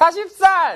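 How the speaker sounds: put-on very high-pitched, loud, childlike voice. Showing how an answer sounds with a tone unfit for forty. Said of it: "이러니까 빵빵 터지더라고요".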